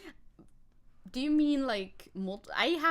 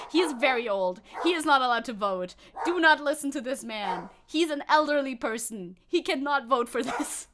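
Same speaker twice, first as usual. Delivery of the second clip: mock denouncing; 7 dB louder than usual. Mock denouncing elderly co-streamer.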